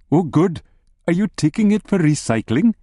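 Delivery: lightly voiced cheerful wife. A narrator's reading.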